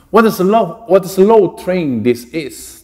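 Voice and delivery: slow, emphatic exclamation with a high start. Shown as a demonstration. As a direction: read it as an exclamation, stretching slow. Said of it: "An exclamation". (exclamación lenta y enfática)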